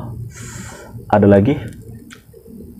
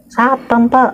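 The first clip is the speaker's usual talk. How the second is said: answer; slower than usual. Retold or imitated. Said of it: "quoting reply".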